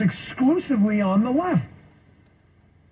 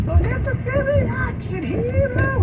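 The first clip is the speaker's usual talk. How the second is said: high, slow hammed-up ad tagline; commercial announcer; slower than usual. Quoting a TV commercial to viewers, hammed-up tagline. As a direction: sell it like a cheesy TV spot. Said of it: "You ever see that, uh, commercial?".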